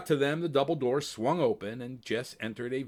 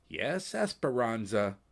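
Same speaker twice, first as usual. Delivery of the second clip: calm; slower than usual. Acted. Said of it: "Jess Donner calmly answered".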